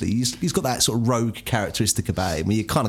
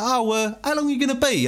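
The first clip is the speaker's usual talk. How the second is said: stepdad calling; 11 semitones higher than usual. Retold or imitated. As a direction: lightly mimic the cheery stepdad calling in. Stepdad voiced in story.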